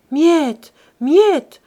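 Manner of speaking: loud, high-pitched pleading call; imploring. A narrator's reading. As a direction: cry the name out in desperate appeal. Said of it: "implora Silver". (appel implorant, crié)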